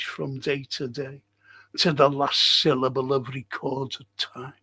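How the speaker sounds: slow, grave Shakespeare reading with long pauses; dramatic recitation. Acted. Lecturer reciting Macbeth's speech to the class, slow and grave. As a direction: deliver it like Macbeth mourning.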